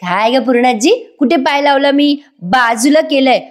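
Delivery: rude retort. Retold or imitated. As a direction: talk back to the grandmother insolently. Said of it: "Priya इतकी उद्धटसारखी बोलते".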